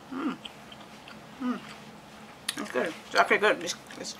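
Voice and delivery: talking while chewing; words round a bite of cookie; mouth full. Real, not acted. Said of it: "shouldn't talk with my mouth full".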